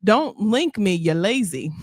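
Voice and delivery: reading in a light Jamaican patois; a hint of Jamaican patois, read aloud. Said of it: "Speaking in patois".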